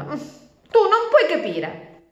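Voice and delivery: very high, slow whine; sulky turtle. Acted. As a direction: stretch out the complaint like a sulking child. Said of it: "disse Nicole a Flavia". (lamento lento e acuto)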